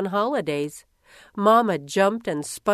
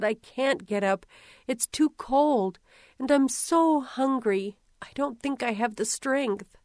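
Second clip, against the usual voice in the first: weak pleading; 5 semitones higher than usual. Acted. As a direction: beg to stay in bed, too weak to rise. Girl begging mother from cold bed.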